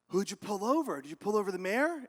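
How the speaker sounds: lightly acted eager questioning; mildly curious dispatcher. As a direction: ask with a touch of urgency. Dispatcher questioning cop, first round.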